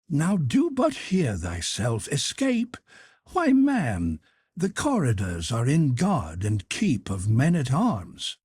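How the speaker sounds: put-on high, urgent boyish voice; Clarence, anxious boy.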